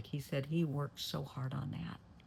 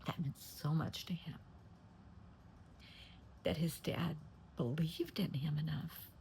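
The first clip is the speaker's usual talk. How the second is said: tearful; 3 dB quieter than usual. Real, not acted. Teller moved to tears retelling the dad's gift, tearful. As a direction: fight back tears as the words come out.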